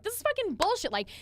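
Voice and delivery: high-pitched passionate outburst; fired-up rant. Retold or imitated. On the webinar, going off about a topic. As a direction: set off, not angry. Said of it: "but I was like".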